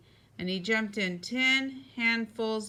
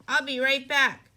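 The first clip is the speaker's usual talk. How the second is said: higher, louder quick promise; hurried cry; 4 semitones higher, 5 dB louder than usual. A narrator's reading. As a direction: call out while dashing off. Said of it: "cried Froggy".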